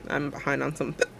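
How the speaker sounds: talking through hiccups; hiccuping mid-sentence. Real, not acted. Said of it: "Now I have the hiccups".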